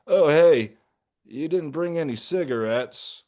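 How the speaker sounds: perks up, suddenly eager; light up with sudden eagerness; bright excited. Acted. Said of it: "Bearsuit brightens".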